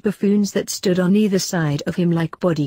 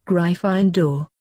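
calling out; slower than usual. Acted. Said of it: "the hat called out".

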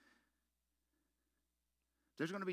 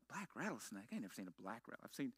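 retold disbelief; 5 semitones lower, 8 dB quieter, faster than usual. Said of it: "I'm like".

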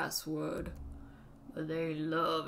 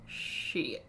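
voiceless curse. Shown as a demonstration. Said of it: "Shit. (three takes)".

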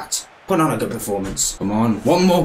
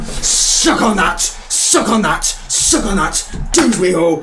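raised, drawn-out triumphant jeer; gloating celebration; 5 semitones higher, 4 dB louder, slower than usual. Real, not acted. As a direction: crow it at the beaten side. Gloating right after the goal.

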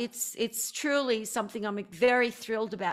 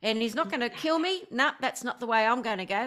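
broad Ocker Australian bushman; lightly exaggerated Ocker Aussie; Ocker accent; 2 semitones higher than usual. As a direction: play a matey Ocker croc wrangler. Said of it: "the Ocker accent is like Paul Hogan".

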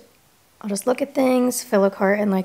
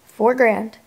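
shocked repeat; 5 dB louder than usual. Real, not acted.

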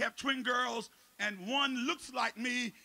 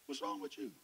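hushed question; 3 semitones lower, 12 dB quieter than usual. Retold or imitated.

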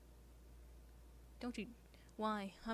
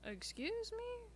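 slow, much higher, affronted excuse me; offended disbelief; 13 semitones higher, much slower than usual. Acted. Girl reacts to being called not much of a woman, offended. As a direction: stretch it out in shocked offense. Character insulted in dialogue.

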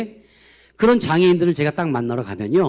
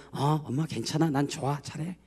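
작고 부드럽게 달래듯; 가족을 안심시키는 말투를 조용히 재연; 다정하게 안심시키는 흉내; 3 semitones lower, 9 dB quieter than usual. Retold or imitated. 바뀐 장애인이 가족을 안심시킴. (나직하고 다정하게)

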